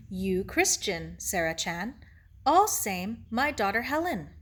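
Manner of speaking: lightly voiced Japanese-accented sage; gentle teacher Ito. Ito explains heaven to Sarah, gently thoughtful. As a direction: explain patiently in short, separated phrases.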